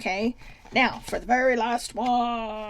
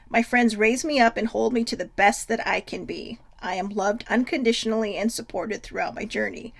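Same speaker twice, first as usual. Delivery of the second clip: bright, louder affirmation read; upbeat card reading; 5 dB louder than usual. Shown as a demonstration. Reading the card out to her viewers, bright and upbeat. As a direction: read it out like a cheerful proclamation. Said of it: "reads affirmation card aloud".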